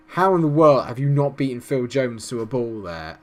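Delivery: loud, disbelieving rant at the player; angry outburst. Real, not acted. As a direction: yell your disbelief at the screen. Ranting at a defender's failure.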